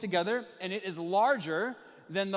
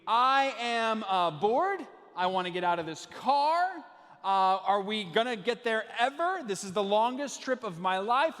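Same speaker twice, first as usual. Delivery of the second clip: mock bored kid. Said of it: "that question is actually".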